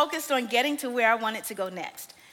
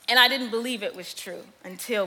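ordinary talk

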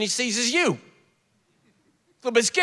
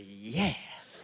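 low, soft yes; quietly won over; awed agreement; 10 semitones lower, 9 dB quieter than usual. Acted. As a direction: breathe out a hushed yes. Won over by gentle professor.

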